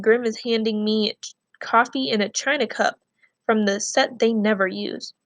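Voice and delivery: reading a novel aloud to the class, steady and clear; story narration. A narrator's reading. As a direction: tell the story to students as a read-aloud. Teacher reads novel chapter aloud.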